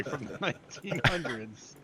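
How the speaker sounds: amused, laughing disbelief. Real, not acted. Co-host teasing friend over calling it nineteen hundreds, laughing. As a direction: tease through a laugh.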